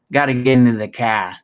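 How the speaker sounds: put-on rough Boston accent, r dropped in "car"; bad Boston accent. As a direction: try to sound Bostonian on "car". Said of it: "I can't do a good Boston accent".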